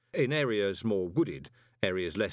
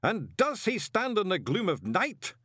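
high, slow ceremonial demand; demanding ritual voice; 11 semitones higher, 3 dB louder than usual. A narrator's reading. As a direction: intone the challenge slowly to the hall. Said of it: "the voice demanded".

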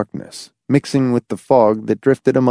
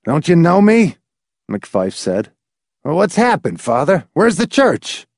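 pleading; 7 semitones higher than usual. A narrator's reading. McFife pleads with the old priest.

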